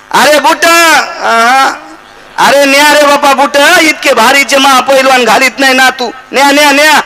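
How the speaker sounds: high, loud calling after him; old woman calling out. Retold or imitated. Grandmother shouts after the departing wrestler to take his shoes. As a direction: call out like an old granny.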